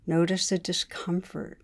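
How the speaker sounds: unhurried meditation guide, pausing between phrases; guided meditation. Real, not acted. Teacher leading listeners to notice wanting in the body, guided meditation. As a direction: guide listeners inward calmly, leaving space between phrases.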